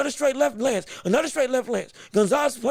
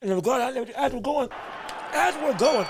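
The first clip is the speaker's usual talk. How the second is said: eating while talking; mouth full. Real, not acted. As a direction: talk through a mouthful of food. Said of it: "can't nobody else on commentary eat and talk".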